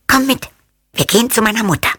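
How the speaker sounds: quick and very high. A narrator's reading. Girl quickly inviting the lamb home, very high. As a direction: blurt it out fast and very high. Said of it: "ganz schnell und mit ganz hoher Stimme".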